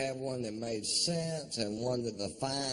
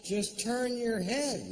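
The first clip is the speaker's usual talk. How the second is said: slow coaching; 10 semitones higher, 3 dB louder than usual. Acted. Coaching mother with helmet.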